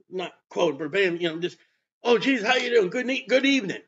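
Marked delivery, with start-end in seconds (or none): 2.0-3.8 lightly voiced polite greeter, pitched slightly up; a hint of an over-friendly caller; Nicodemus. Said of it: "Nicodemus goes".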